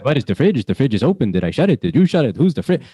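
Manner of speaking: put-on lightly done old Jewish man accent, fussing; Yiddish-flavored accent, confused. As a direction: fret about the fridge like an old Jewish man. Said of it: "talk like an old Jewish man".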